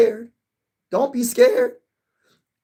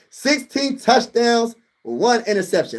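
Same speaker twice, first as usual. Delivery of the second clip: slow emphasis; 5 semitones higher, slower than usual. Shown as a demonstration. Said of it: "let me say that one more time".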